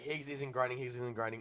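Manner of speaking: ordinary delivery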